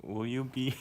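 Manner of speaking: put-on country twang; hammed-up American country accent. Shown as a demonstration. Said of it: "That is a country accent".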